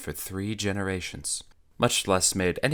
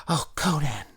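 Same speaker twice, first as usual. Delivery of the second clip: high, loud frantic plea; hysterical begging; 10 semitones higher, 4 dB louder than usual. Acted. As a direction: beg in a panic. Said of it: "begged Natala hysterically".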